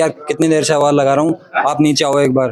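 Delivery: normal talking voice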